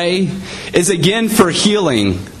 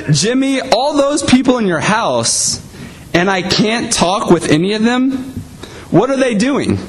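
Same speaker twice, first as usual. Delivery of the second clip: higher, pleading caller at wit's end; exasperated telemarketer; 6 semitones higher than usual. Acted. Telemarketer begging a child for a grown-up, exasperated and higher. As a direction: push up in pitch, baffled and insistent.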